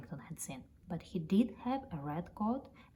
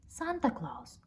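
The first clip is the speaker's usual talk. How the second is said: excited cry; 5 semitones higher, slower than usual. Acted. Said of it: "cried Paddington".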